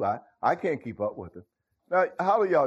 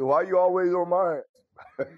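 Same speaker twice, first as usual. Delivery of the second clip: indignant quote; 6 semitones higher than usual. Retold or imitated. Larry complaining at the woodpile, mock indignant. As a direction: throw the complaint back indignantly. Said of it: "He said it like that".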